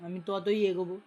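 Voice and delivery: talking while chewing; eating muri. Real, not acted. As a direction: mouth full. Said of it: "আমি মুড়ি খেতে খেতে কথা বলছি".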